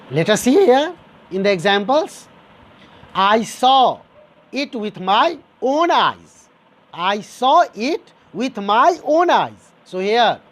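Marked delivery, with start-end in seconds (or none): 3.1-9.7 slow, with weight on "own eyes"; stressed demonstration. Shown as a demonstration. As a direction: lean slowly on "own" in "my own eyes". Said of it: "you are giving a stress".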